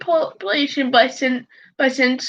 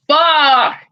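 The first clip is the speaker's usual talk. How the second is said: loud, drawn-out expletive; shocked swearing; 5 dB louder than usual. Real, not acted. Reacting to the distance from Hong Kong to Tokyo, shocked. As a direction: blurt it out loud in disbelief.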